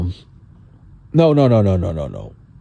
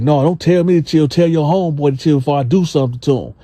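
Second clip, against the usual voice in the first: Gene voiced; 4 semitones higher, faster than usual. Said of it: "He was like".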